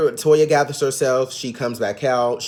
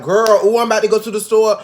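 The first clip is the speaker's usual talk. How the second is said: much higher, louder, fast whiny parody; mock whiny Contessa; 8 semitones higher, 5 dB louder than usual. Mocking Contessa bringing up her surgery, a shrill hammed-up parody. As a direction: ham up the complaining, squealing every ooh. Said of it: "We could be like".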